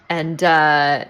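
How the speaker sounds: ordinary delivery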